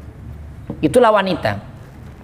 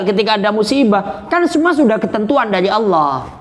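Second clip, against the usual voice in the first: a stern, higher-pitched voice scolding the mourner; stern rebuke; 5 semitones higher than usual. Acted. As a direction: scold like the angel of death. Angel of death rebukes mourner. (malaikat maut menegur orang yang meratap, suara tinggi dan keras)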